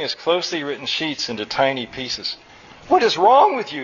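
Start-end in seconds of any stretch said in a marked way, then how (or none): 2.9-3.8 high, loud indignant outburst; raised-voice angry demand; yelled. A narrator's reading. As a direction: yell it in outraged disbelief. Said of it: "yelled Nectar".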